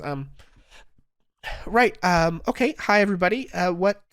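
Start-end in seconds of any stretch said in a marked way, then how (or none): 1.6-4.0 lightly voiced barmaid, a bit louder; eager, slightly raised hostess voice; Brecca greeting. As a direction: welcome the table as the tavern girl. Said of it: "greets everyone again and says".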